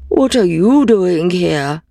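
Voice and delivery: slow, friendly donkey voice; a hint of an old donkey. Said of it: "said the donkey".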